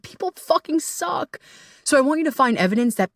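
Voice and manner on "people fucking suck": mock cynical grumble. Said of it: "so often we're like".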